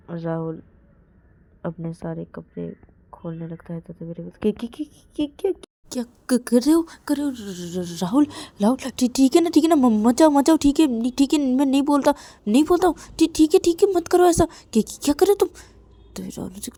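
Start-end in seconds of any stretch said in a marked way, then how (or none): 4.4-15.5 very high, loud, stammering begging; shrill frightened pleading; panicked pleading. Acted. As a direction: beg him to stop, stuttering.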